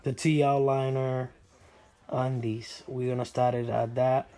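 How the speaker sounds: hoarse, under the weather; sick voice. Real, not acted. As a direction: talk through a sick, rough voice. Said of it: "sorry about my voice. I've been under the weather".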